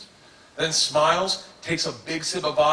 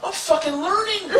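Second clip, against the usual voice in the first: thrilled. Retold or imitated. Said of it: "I'm like".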